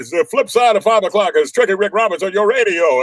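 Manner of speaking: bright announcer patter, far; old radio DJ voice. Retold or imitated. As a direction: rap it like a classic jock. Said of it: "Pops and everybody".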